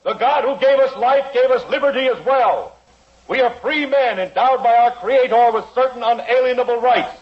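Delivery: rising speech of liberty; rally the room for freedom; impassioned oration. Acted. Lawyer defies the judge in court, impassioned oration.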